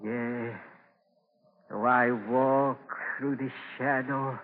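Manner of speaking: slow, fading psalm from a deathbed; weak dying recital. Acted. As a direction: breathe the words out as life slips away. Dying man recites psalm slowly.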